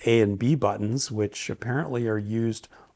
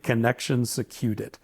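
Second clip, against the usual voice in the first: flat announcer-style device voice; mock robot voice; 3 dB quieter than usual. Reviewer imitating headset's voice prompt, mock robotic. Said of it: "Something like".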